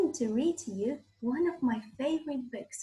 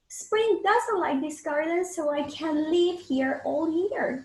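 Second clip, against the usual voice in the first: winter voice; 3 semitones higher, 3 dB louder than usual. Acted. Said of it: "says winter".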